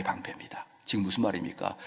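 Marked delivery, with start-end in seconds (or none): 0.0-0.6 sudden breathed whisper. Shown as a demonstration. Preacher ending the line in a whisper. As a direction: drop to a whisper for emphasis.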